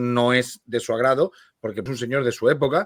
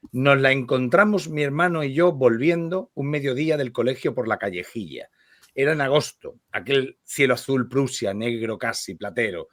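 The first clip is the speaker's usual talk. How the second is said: measured literary read-aloud; lectura literaria. Acted. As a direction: read the story aloud with care, phrase by phrase. Lee en voz alta. (lectura literaria en voz alta)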